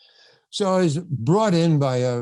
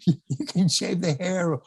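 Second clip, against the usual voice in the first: over-eager agreement; 5 semitones higher than usual. Retold or imitated. Acting out his over-eager agreement.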